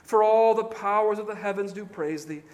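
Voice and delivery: put-on slow, earnest reading of an old prayer; solemn prayer read. Preacher reading Manasseh's prayer to the congregation, solemn and slow. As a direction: pray it slowly, as your own penitent words. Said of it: "I will read it slowly".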